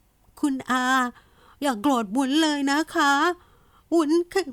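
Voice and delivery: plead, then break down crying; breaking into tears. A narrator's reading. Niece begs uncle not to be angry, then sobs. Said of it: "น้ำตาก็ร่วงพรูลงมา".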